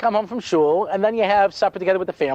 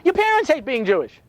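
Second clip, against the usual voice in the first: rabbi speech; 6 semitones higher than usual. Acted. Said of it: "here comes the rabbi speech".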